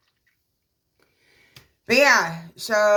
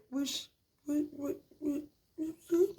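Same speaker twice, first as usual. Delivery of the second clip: high squeaky sputtering what what; mocking husband; 10 semitones higher, 8 dB quieter than usual. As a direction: squeak out his flustered whats, pitched way up. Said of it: "It's like".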